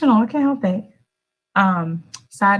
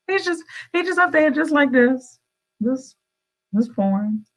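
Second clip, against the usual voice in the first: a hint of wonder; 6 semitones higher than usual. Imagining God pouring.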